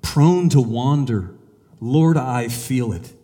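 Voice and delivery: slow, reverent recitation; slow hymn reading. Acted. Preacher reading hymn to congregation, slow and reverent. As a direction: linger on each phrase of the verse. Hymn lines read in story.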